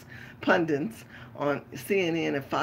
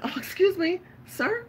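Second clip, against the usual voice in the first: high sugary polite lady voice, much higher; sweet white Becky; 13 semitones higher than usual. Pretend. Woman in the market mocks the men, high sweet lady voice. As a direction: play the sweet, innocent white lady asking for help. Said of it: "I act like sweet white Becky".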